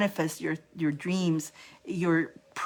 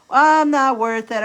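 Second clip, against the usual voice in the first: self-doubting inner voice; 6 semitones higher, 7 dB louder than usual. Retold or imitated. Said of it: "we go into us feeling not worth it".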